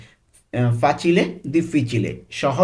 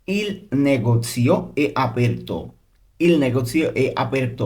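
very slow, careful teaching delivery; drawn-out language-lesson pronunciation; slow model reading; much slower than usual. Shown as a demonstration. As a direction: space the words out for learners. Teacher models Italian sentence.

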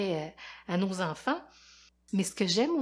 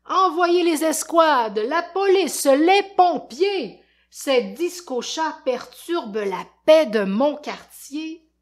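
loud, higher, furious orders; furious shout; 8 semitones higher, 10 dB louder, slower than usual. Acted. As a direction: bark the orders at the whole city. Voisin furieux appelle les secours. (voisin furieux qui crie ses ordres)

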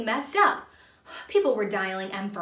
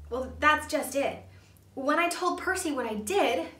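mild mock sob in a higher voice; a hammed-up, higher upset voice; sobbing; 6 semitones higher than usual. A narrator's reading. Junior confessing about telling Percy, mock-sobbing. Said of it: "Junior sobbed".

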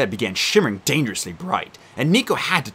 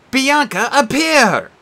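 intoned; 12 semitones higher, 6 dB louder, much slower than usual. Acted. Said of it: "Nico intoned".

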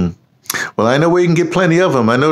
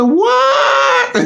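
shocked shout. Retold or imitated. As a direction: yell it in disbelief, way up high. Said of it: "I said".

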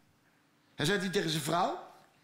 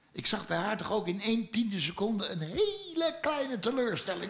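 laughing; 3 semitones higher than usual. Real, not acted. Laughing at wife's disappointment.

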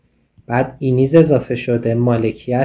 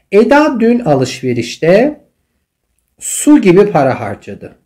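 slow reading; 6 semitones higher, 4 dB louder, much slower than usual. Shown as a demonstration. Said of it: "teacher reads example sentence slowly".

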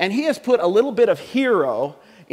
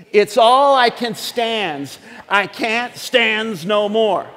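slow, drawn-out Popeye line; Popeye catchphrase; 3 semitones higher, 4 dB louder, much slower than usual. Retold or imitated. Pastor voicing Popeye's catchphrase to the congregation, slow mock growl. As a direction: growl it out like Popeye at his limit, slowly. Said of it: "a little phrase that Popeye would say".

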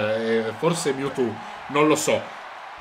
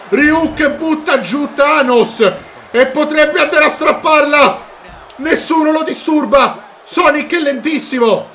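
higher, louder rising call; excited commentary; 6 semitones higher, 5 dB louder than usual. Real, not acted. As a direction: build tension as he climbs. Ryuk could grab briefcase. (telecronaca concitata)

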